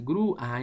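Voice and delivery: "Grúa" as GRÚ-a, two syllables; teacher's "Grúa", weight on U; stressed U. Shown as a demonstration. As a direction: let the U of "Grúa" ring before a separate a. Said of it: "entonces suena la U".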